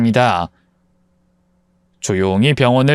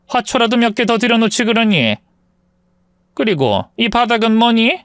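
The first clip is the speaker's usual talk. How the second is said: high-pitched nagging mother-in-law, picking at everything; 시어머니 목소리; 7 semitones higher than usual. Acted. (높은 톤으로 트집 잡는 시어머니)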